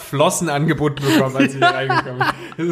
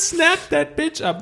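drawn-out high singsong; 14 semitones higher, much slower than usual. Acted. Drawn-out silly English phrase.

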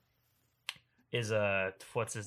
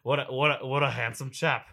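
put-on light British accent, admiring; a touch of British gentleman admiring a poster; 3 semitones higher, 4 dB louder than usual. Player admiring his own wanted poster, lightly British. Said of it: "I don't know why I went British there".

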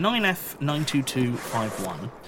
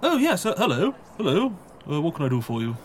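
put-on high, breathy old librarian; a prim small-town librarian answering the desk; 6 semitones higher than usual. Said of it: "this is the librarian's voice".

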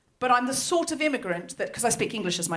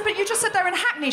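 retold disbelief; 9 semitones higher than usual.

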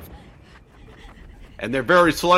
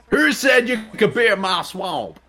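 southern Shrek voice; 5 semitones higher than usual. Pretend. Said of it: "that was Shrek's southern".

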